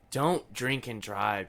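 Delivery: slow, deliberate warning, each word weighed; slow it right down to drive it home; earnest slow plea not to drink and drive. Real, not acted. Warning listeners about drunk driving.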